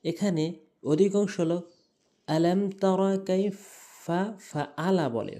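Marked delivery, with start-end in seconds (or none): 2.3-5.0 ফাআলা with a plain glottal hamza instead of ain; common mispronunciation. Shown as a demonstration. Teacher showing most people's mistake, ফাআলা with hamza. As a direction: say ফাআলা with a light catch, no throaty ain. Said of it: "আইনের জায়গায় হামজা এনে উচ্চারণ করি".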